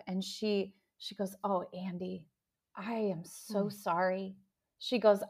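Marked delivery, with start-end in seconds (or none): 1.4-4.4 softly and slowly, imitating mom's gentle apology; a mom's soft, slow sorry; tender apology. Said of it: "with the most tender love".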